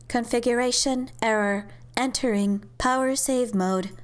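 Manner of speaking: lightly voiced robot, level pitch; a hint of automated system announcement; machine voice. Device announces error and shutdown, in a light machine voice.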